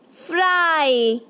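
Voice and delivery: फ्राई slow with a long ai; slow demo word. Shown as a demonstration. Teacher sounds out a picture word for children, slow. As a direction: draw फ्राई out for the class. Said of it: "long sound, आई sound".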